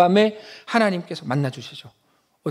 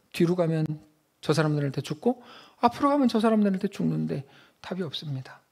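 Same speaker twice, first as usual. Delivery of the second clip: pleading Jacob; 3 semitones lower, 3 dB quieter than usual. Pretend. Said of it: "그리고 이렇게 말해요".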